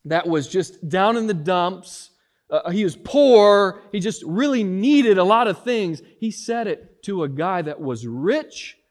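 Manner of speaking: fiery sermon emphasis; full-force preaching. Acted. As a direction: preach with rising intensity.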